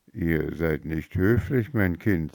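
unruffled and quiet; calm rebuke. Acted. The fairy calmly rebukes the rude girl. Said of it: "sagte die Fee gelassen".

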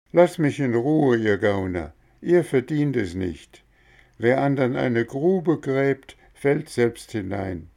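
loud, high, sharp refusal; angry boy. Acted. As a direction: send the crooks away. Boy angrily rejects the beggars.

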